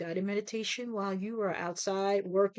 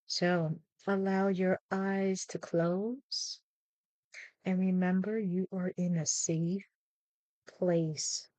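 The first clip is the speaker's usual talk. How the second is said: guided meditation. Acted. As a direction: gently guide listeners into calm, phrase by phrase.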